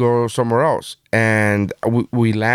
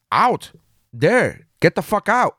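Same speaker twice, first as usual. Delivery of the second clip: mock customs officer; 8 semitones higher, slower than usual. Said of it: "He goes".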